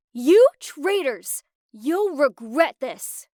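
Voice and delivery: screamed threat. Acted. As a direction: hurl it at the traitors. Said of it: "she screamed".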